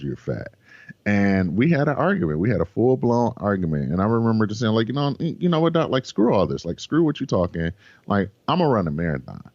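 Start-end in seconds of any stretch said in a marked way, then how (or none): 0.0-0.5 softer, lower, as if it still rings in his head; hushed replay of the insult; quiet echo. Retold or imitated. Words echoing in his memory. 4.9-9.4 higher, heated comeback to the doctor; half-hearted angry outburst; mock defiant retort. Full-blown argument with doctor.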